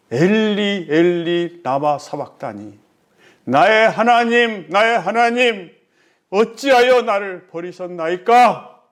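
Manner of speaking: understated anguished lament; reproachful cry. Acted. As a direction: cry out with a touch of resentment, stretching each address. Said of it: "원망 섞인 그 마음을 담아서 부르짖잖아요".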